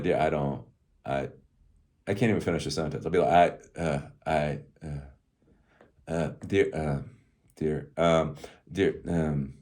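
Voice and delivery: acted halting, distracted stammer; absorbed in work. Coder interrupted by wife's question, acted distracted. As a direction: grope for words with long gaps, mind elsewhere. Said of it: "that's how I am when I'm doing tech work".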